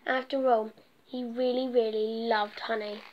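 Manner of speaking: lively storybook narration read aloud; reading to children. A narrator's reading. Storyteller reading a picture book to children, lively. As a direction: tell the bee story to little listeners.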